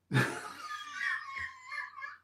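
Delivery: very high, thin laugh; helpless high-pitched laugh; high squealing laugh. Real, not acted. Reacts to a hairstyle picture.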